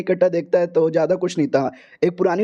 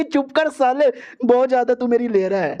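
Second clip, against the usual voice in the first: higher, fed-up snap; irritated girl; 5 semitones higher than usual. Acted. The girl snaps at the teasing hero, higher and fed up. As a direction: cut him off, pitched up.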